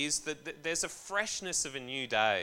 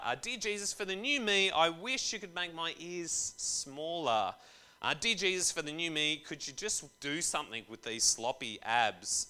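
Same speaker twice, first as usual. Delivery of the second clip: higher, wheedling wish-list prayer; mock vain prayer; 3 semitones higher than usual. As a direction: pray like a vain kid asking Santa.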